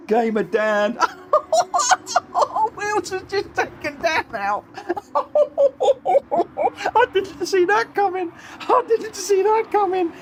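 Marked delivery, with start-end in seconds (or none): 1.0-10.2 very high, squealing through laughter; helpless real laughing disbelief; hysterical laughter. Real, not acted. Commentator watching Wilson take Dan out, in hysterics. Laughing at a surprise crash at finish.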